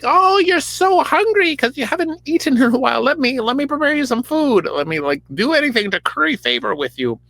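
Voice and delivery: very high, hammed-up sweet voice; the witch currying favor with Saul, fawning. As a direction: suck up in a high put-on voice.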